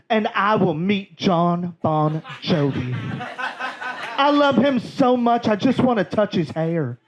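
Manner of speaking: a hint of the gushing aunt; Southern aunt. Aunt Kathy gushing over a singer, mildly Southern. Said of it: "And she said".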